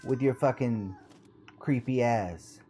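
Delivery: shouting in panic at creepy creature; scared and angry. Real, not acted. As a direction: back off, half scared half furious. Yelling at creepy game enemy.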